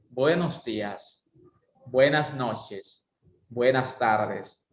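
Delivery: "Buenos días" spoken slowly and distinctly; slow correct greeting. Shown as a demonstration. Teacher correcting students' "buen día", slow and precise. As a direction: draw out "Buenos días, buenas noches, buenas tardes" syllable by syllable. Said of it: "Es incorrecto decir buen día".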